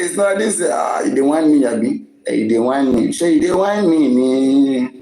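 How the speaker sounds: hammed-up indignant whiner; mocking protest. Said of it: "You go dey hear".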